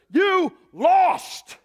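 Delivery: high, loud victory proclamation; Jesus declaring victory over the spirits, loud and high; triumphant declaration. Acted. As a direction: declare the defeat to the spirits in prison. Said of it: "What was he going down to declare".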